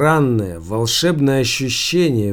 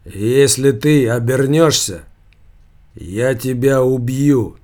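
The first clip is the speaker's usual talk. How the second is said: sepulchral voice. Acted. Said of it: "замогильный голос".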